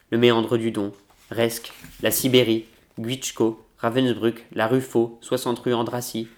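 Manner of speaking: measured, even reading of a novel; literary reading. A narrator's reading. Book vlogger reading a Kertész passage to viewers, in a steady literary narration. Reads novel excerpt aloud.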